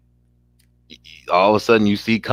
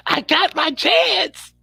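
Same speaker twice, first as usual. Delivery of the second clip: gleeful; slower than usual. Retold or imitated. Friend voices the professor gleefully.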